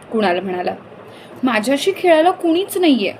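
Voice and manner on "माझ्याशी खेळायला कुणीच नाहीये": put-on high, whiny complaint of a bored boy; whining child. A narrator's reading. Boy whines to his mother that nobody plays. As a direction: whine it like a sulking kid. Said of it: "Yash कुरकुरला".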